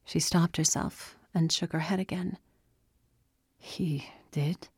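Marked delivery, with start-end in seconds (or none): 3.6-4.7 soft, hushed question; softened voice. A narrator's reading. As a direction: ask gently, almost whispering. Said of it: "Chris's voice softened".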